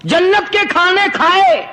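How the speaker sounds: mildly acted, high-pitched rebuke; reproachful talking dog. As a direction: throw the accusation back at the saint. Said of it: "وہ یہ کہنے لگا کہ ولی صاحب".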